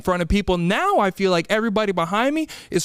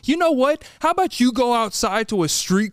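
exasperated comeback; 4 semitones higher than usual. Acted. Retort to crawfish fans.

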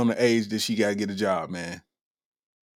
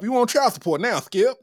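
Shannon Sharpe impression; 10 semitones higher than usual. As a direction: taunt Skip, pitched up. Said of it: "she got them Shannon Sharpe features".

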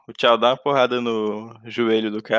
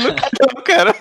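laughing; 11 semitones higher, 5 dB louder, faster than usual. Real, not acted.

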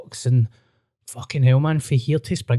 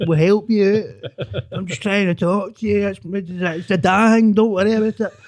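mock concerned dad; 6 semitones higher than usual. Son mimicking his dad's worried chat, high and hammed-up. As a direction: play the fussing father worried over tea. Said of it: "My dad".

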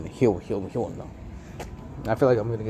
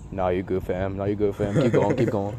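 retold brush-off; 7 semitones lower, 7 dB quieter than usual. Retold friend waving off concern.

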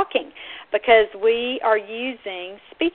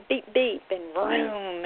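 play-sound beeps, then a drawn-out vroom; vehicle noises; much slower than usual. Shown as a demonstration. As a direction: demo car horn and engine. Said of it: "vehicle noises".

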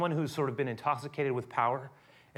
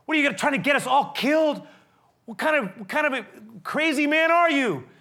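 loud, high, outraged; angry accusation; 10 semitones higher, 6 dB louder than usual. Acted. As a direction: yell at him like a fool. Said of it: "They're saying".

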